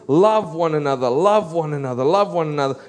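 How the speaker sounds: LOVE hit at the head of each round, falling away after; emphatic repetition. Retold or imitated. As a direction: repeat it insistently, "Love one another", stressing Love each time. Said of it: "He's repeating this phrase".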